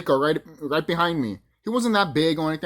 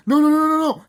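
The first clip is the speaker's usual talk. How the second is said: high, loud mock-panicked protest; retold panic; 11 semitones higher, 6 dB louder than usual. Executive to the intruder in her office, retold panic. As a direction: imitate someone frantically refusing, pitched way up.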